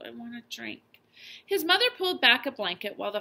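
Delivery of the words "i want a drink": soft, weak feverish mumble; sick boy asking faintly; mumbled. A narrator's reading. Feverish boy asking parents for water, softly mumbled. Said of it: "he mumbled".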